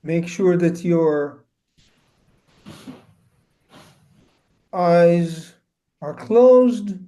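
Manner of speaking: unhurried instructions with long pauses; spacious, measured meditation guidance; guided meditation. Acted. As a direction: guide listeners gently into stillness, phrase by phrase.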